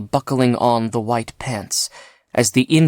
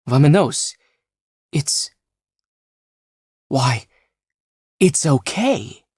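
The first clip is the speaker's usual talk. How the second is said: raised anxious voice; fretting over the precious suit; nervous, pitched-up worry; worried checking; 6 semitones higher, 4 dB louder than usual. Acted.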